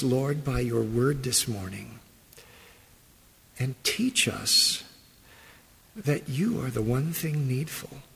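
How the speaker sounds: pastor leading a hushed prayer. Acted. Leads a prayer.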